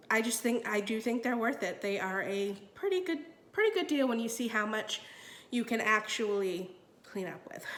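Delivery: stuffy nasal voice from a cold; nasally voice. Real, not acted. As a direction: talk through a blocked nose. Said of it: "bearing with my nasally voice".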